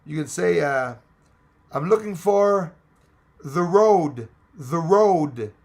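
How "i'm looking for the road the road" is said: hammed-up Italian accent, louder and slower; mock Italian accent. Tourist faking Italian for directions, hammed-up Italian accent. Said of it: "If you don't know an Italian word, you can say".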